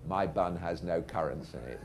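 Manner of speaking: operator's measured dictation with an American touch; American accent. Retold or imitated. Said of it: "but in an American accent".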